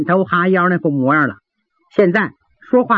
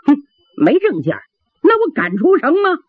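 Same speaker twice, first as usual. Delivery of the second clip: high, haughty drawl; deliberate drawl; 8 semitones higher than usual. A narrator's reading. Guo Yun posing as steward answers gate guard, deliberately drawling haughtily. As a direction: draw it out with lofty disdain. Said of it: "郭云故意拉着长声".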